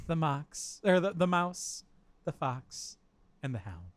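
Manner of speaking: slow storybook poem reading. Acted. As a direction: read it like a children's fable. Reads pretentious beer poem.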